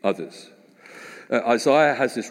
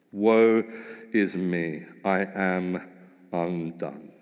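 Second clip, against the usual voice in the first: hushed lament; 4 semitones lower, slower than usual. Acted. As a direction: let each word fall away into near silence. Dramatic repeat of Isaiah's cry.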